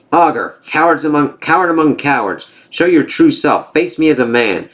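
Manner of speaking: a hint of the thunder god calling out a coward; lightly voiced angry warrior god; Thor's defiant challenge.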